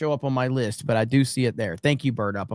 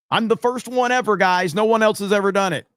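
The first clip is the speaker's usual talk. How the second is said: sarcastic boast; 5 semitones higher, 3 dB louder than usual. Real, not acted. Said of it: "sarcastic boast".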